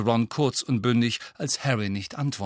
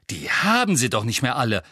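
indignant; 4 dB louder than usual. Acted. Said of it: "entrüstete sich Hermine".

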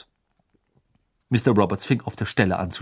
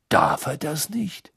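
worried; 6 semitones higher, slower than usual. A narrator's reading. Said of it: "fragte Mister Weasley beunruhigt".

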